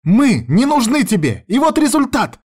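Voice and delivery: ex-wife screaming her blame; shrill outburst. Acted. Ex-wife shouting in quarrel.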